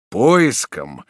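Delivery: sudden alarmed question; startled exclamation. Acted. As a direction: catch the word in shock. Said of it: "воскликнул маршал".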